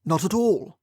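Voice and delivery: forced through gritted teeth; polite but teeth clenched. Acted. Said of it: "through gritted teeth".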